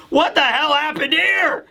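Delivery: high-pitched mock shock; shocked outcry. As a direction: imitate an old man's aghast disbelief. Old man finds castle wrecked, acted.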